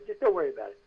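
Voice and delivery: unforced, easy brush-off; retold soothing at ordinary pitch; casual reassurance. Crew to unprepared actor, casually reassuring.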